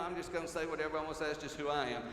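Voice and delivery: fast dismissive mock quote. Preacher mocking people's excuse for rudeness, fast and scornful. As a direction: rattle it off to mock it.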